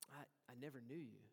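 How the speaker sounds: low, soft and grave, a quiet verdict; solemn rejection. Acted. Jesus quietly turning the pretenders away, low and grave. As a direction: let it fall quietly, final.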